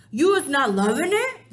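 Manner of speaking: loud, wide-eyed innocent ask; innocent question. Acted. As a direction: play dumb sweetly. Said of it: "the B F G asked innocently".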